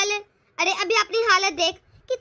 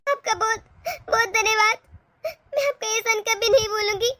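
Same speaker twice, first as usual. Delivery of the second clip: tearful thanks. Acted. Tearful daughter thanks helper.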